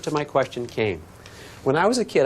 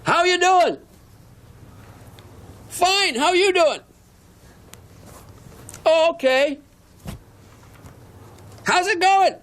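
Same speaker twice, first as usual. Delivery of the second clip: two scout troops yelling greetings across a lake; shouted across the water. Retold or imitated. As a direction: keep hollering small talk over the lake. Shouted small talk across lake.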